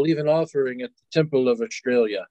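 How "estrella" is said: Estrella said as "Australia"; mispronounced name. Acted. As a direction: turn the goddess's name into "Australia". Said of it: "you say her name wrong".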